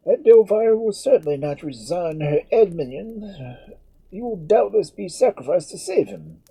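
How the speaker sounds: high, loud, grave priestly tone; a priest delivering a harsh verdict; priest's voice. Acted. Priest continues.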